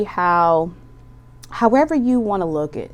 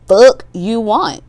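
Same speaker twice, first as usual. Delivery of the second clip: slow, louder, breaking into a laugh; 3 semitones higher, 6 dB louder, slower than usual. Real, not acted. Tarot reader cracking up at her own swear, laughing. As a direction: let the swear tip you into laughter.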